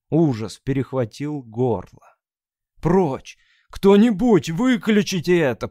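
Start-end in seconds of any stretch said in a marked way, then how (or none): 2.8-5.7 loud, high cry of terror; hoarse terror. Acted. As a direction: gasp it out in horror. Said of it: "прохрипел Мессарж". (в ужасе, громко)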